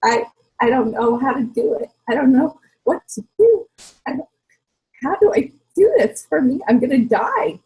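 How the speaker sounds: frantic overwhelmed mom; panicked quote. Retold or imitated. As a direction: retell the old panic with a catch of desperation. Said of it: "And I said".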